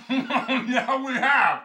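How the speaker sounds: high, loud laughing agreement; loud high cackling words. Acted. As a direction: agree through a big laugh. Cracking up at own remark.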